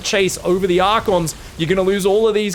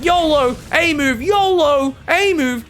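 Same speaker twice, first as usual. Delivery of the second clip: high, louder, slow carefree chant; voicing reckless Hero; 11 semitones higher, 4 dB louder, slower than usual. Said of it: "Hero's like".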